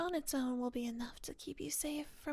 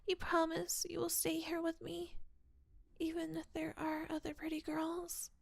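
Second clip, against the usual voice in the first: whispered ASMR roleplay. Acted. Girlfriend asks her partner to promise to stay, whispered. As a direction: whisper close to the ear, needy.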